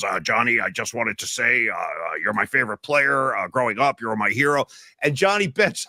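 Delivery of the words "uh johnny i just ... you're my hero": lower, hesitant starstruck fan stammering to his hero; a light take on a nervous fan meeting his idol. Retold or imitated. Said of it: "He goes".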